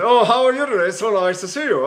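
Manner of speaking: imitated English Shakespearean actor, teeth together; clenched-teeth English actor. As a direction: talk English-actor style through closed teeth. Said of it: "They put their teeth together like this".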